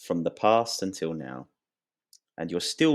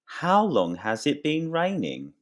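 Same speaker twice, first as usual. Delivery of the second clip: higher, lively example question; 9 semitones higher than usual. Shown as a demonstration. Teacher modeling the question for students, higher pitched. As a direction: ask it brightly to the class. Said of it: "I can say".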